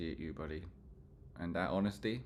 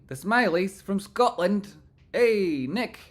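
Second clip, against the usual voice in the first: higher, louder, slow proud read; excited read; 11 semitones higher, 9 dB louder, slower than usual. Real, not acted. Streamer proudly reading a viewer's Scottish family name, loud. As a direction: boom it out proudly.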